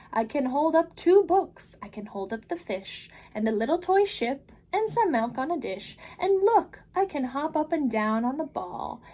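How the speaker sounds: put-on the Cat in the Hat calming the children, big and upbeat. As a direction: reassure the kids with a grand flourish. Cat shows off balancing.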